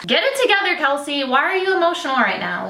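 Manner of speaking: high-pitched pep talk to oneself; emotional self-scolding. Real, not acted. Vlogger telling herself off for getting emotional, high self-scolding. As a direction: scold yourself for getting upset. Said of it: "getting emotional in the freaking intro".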